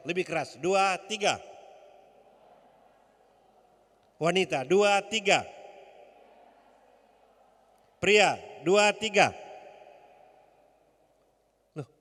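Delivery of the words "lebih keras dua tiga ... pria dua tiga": high, loud count-in; rally the crowd with a shouted count; loud cueing. Real, not acted. Preacher cues women and men to repeat, calling out loudly.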